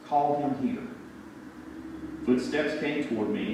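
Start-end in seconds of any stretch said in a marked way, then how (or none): 0.1-0.8 mildly calm and kind; gentle, understated summons. A narrator's reading. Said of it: "I heard a calm, kind voice say".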